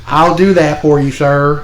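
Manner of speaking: slow, mock-servile agreement; obedient employee. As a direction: humour the boss like a dutiful underling. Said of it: "then here comes Vince".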